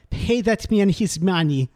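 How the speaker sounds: slow, hammed-up bad Russian accent from the movie; mock Malkovich-style Russian drawl, lightly done; a mock bad Russian accent line. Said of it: "you wanna talk about bad accents".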